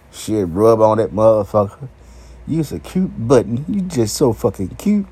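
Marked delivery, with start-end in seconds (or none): 2.5-5.1 put-on baby talk. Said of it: "Talking to the motherfucking dick like it's a motherfucking baby".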